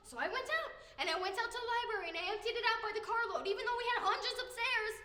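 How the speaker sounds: exasperated venting. Acted. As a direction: pour out the frustration loudly. Acted venting about demanding father.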